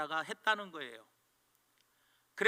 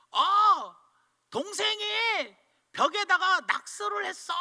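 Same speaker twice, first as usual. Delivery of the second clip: put-on high, louder child telling on her brother; daughter tattling; 10 semitones higher, 5 dB louder than usual. Daughter reports the wall scribbles to dad, high and loud. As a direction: tell on your little brother, breathless.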